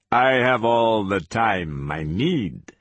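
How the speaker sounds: slow, lightly voiced menacing captor; measured, unhurried villain; patient interrogator. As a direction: take your time, savoring the power.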